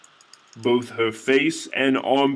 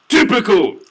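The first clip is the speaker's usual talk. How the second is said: exasperated; 9 semitones higher, 5 dB louder than usual. A narrator's reading. Exasperated outburst.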